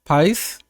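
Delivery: PARIS tried with a softened middle, rising; French-style Paris. Shown as a demonstration. Streamer unsure how Parisians say it, French-style Paris. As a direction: test PARIS the French way, as a question. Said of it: "a person from Paris say Paris".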